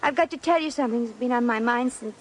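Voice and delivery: put-on American girl putting on a refined British accent; fake British accent. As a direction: keep the put-on English accent polite and careful. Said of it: "your accent".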